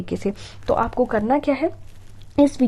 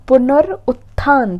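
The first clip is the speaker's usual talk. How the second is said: पुनरुत्थान stretched very slowly, a bit louder; slower louder word; 5 dB louder, much slower than usual. Shown as a demonstration. Teacher repeats पुनरुत्थान slowly and emphatically. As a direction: stress पुनरुत्थान slowly and clearly.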